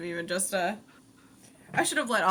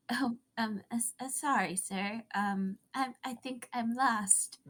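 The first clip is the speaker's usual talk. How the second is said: soft, hesitant, slightly frail; 2 semitones higher, 4 dB quieter than usual. Acted. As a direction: play it small and lost. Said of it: "I'm just gonna put on this, like, frail sounding voice".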